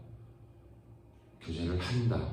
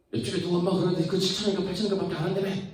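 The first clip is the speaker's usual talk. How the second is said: high, fast, louder mom voice; accusing mother; 9 semitones higher, 5 dB louder, much faster than usual. Acted. Mom confronting child over book price, high fast accusation. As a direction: confront the kid in one rapid high rush.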